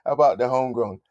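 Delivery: high, loud, slow mock sneer; a laughing Londoner sneering at a yank; mock British bloke. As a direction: act out a scornful Londoner with a grin. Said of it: "He looked at me like".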